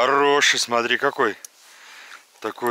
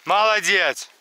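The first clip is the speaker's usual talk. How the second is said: talking to a dog; 7 semitones higher than usual. Real, not acted. Praising and commanding dog.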